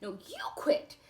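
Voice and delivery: high shrieky bickering; bickering fairy. Acted. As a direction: shout back in a petty argument. Fairies bickering over colour.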